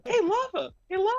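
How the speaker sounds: calling out. Real, not acted. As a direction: shout a friendly hey. Calling out to a friend.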